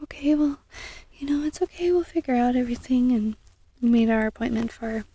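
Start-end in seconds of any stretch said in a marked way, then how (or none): 0.0-3.1 gently imitating a kind lady on the phone, a little higher; sweet receptionist. Imitating the kind receptionist who comforts her, gently. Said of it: "the lady was so sweet".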